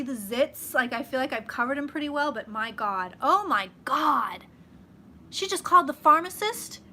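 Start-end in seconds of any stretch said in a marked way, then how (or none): 3.2-4.4 drawn-out amazement. Real, not acted. Reacting to chat news.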